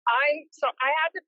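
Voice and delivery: windy speakerphone sound; phone speaker. Real, not acted. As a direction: voice through a phone in wind. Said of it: "Speakerphone in a wind tunnel".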